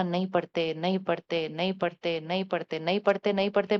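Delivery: lightly voiced fed-up parent; nagging complaint. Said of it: "हमें ये संकल्प नहीं करना".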